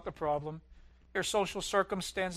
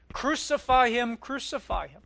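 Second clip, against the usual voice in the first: mock crowd shout; 5 semitones higher, 6 dB louder than usual. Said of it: "the crowds shouting something".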